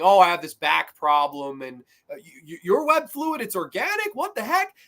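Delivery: playful impression of the heroes bantering; imitating the Spider-Men. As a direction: lift it up into a goofy movie quote. Quoting the Spider-Men's banter.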